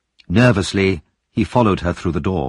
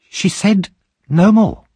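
calm; 13 semitones higher, 5 dB louder, slower than usual. Acted. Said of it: "repeated Missus Bumble calmly".

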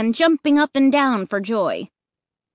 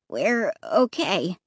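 uncertain; 2 semitones lower, slower than usual. Acted. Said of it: "Clay said uncertainly".

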